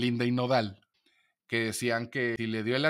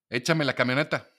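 curt demand. Retold or imitated. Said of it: "Ok, entonces yo soy un idiota".

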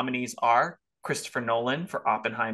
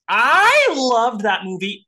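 high, loud, drawn-out rave; big slow fangirl gush; gushing love; 8 semitones higher, 9 dB louder, slower than usual. Real, not acted. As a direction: swoon over the movie out loud. Gushing about Poor Things.

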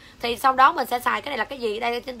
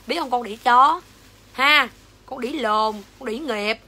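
loud, real angry challenge; angry cursing; 4 dB louder, slower than usual. Real, not acted. Seller challenging a hostile commenter, loud angry cursing. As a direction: throw the insult out loudly, demanding an answer. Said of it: "em chửi xong".

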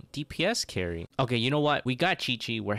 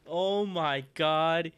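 awed gasp; 6 semitones higher, much slower than usual. Real, not acted. After the lucky pull.

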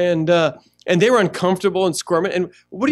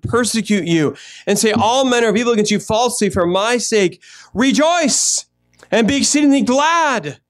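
measured, solemn Bible reading with a lift on "Rejoice"; scripture reading. Acted. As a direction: read the verses like a preacher from the pulpit. Reads scripture aloud.

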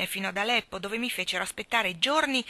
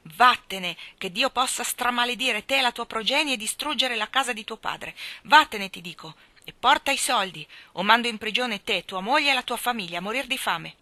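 shouted much louder and higher, cursing; furious shout; 4 semitones higher, 6 dB louder than usual. A narrator's reading. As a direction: roar curses at the peasant. (grido furioso)

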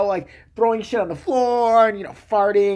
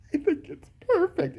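much higher, slow breathless praise; mock adoring wife; 11 semitones higher, 3 dB quieter than usual. Wife praises husband's writing, mock adoring. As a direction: gush it like a dazzled fan.

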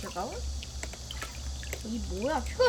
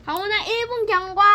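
to someone hard of hearing; 6 semitones higher than usual. Real, not acted. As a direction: call out so he hears underwater. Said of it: "귀도 물에 들어가가지고 이제 잘 안 들려".

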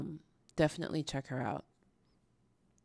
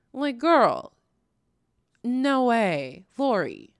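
incredulous; 5 semitones higher, 7 dB louder, much slower than usual. Real, not acted. Incredulous at Lori.

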